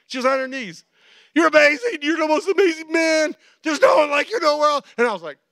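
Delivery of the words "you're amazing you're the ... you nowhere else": high, loud adoring praise; overdone flattery at full voice; mock gushing shout. Wife flattering her husband to make a point, shouted.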